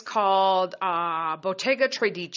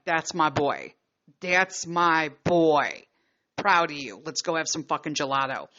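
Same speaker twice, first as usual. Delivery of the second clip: proud retold praise; 4 semitones lower than usual. Mother retells praising son who pulled back, proud and low.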